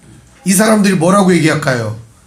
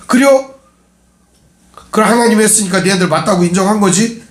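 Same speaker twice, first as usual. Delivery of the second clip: eager surprise; 3 semitones higher than usual. Retold or imitated. Servant eagerly confirms.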